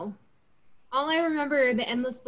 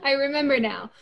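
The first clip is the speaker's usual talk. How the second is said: amused laughing; 2 semitones higher than usual. Real, not acted. Listener recalling the pillow scene, laughing. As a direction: laugh in the words.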